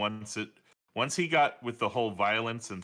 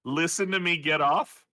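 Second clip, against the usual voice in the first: imitating cartoon line; 5 semitones higher, 4 dB louder than usual. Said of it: "it's from a show".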